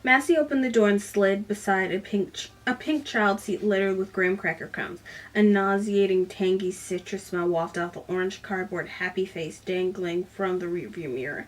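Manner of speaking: reading a novel excerpt aloud to viewers; measured storyteller read, voicing the dialogue lightly; book reading. Reviewer reading a passage from the book, story narration.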